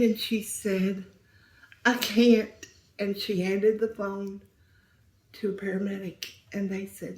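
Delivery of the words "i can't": choked plea. Retold or imitated. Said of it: "she was hysterical".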